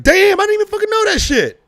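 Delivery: loud stunned clerk; amazed. Retold or imitated. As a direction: shout your disbelief.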